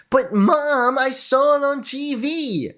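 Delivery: put-on a touch of a child pleading to mom; whining child. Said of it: "he sounds like a child whining".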